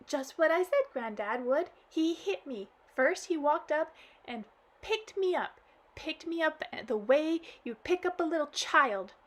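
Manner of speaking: acted child crying to granddad; blubbering girl. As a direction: blurt it out blubbering.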